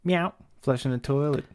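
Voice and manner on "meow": cat meow. Pretend. Imitating a cat.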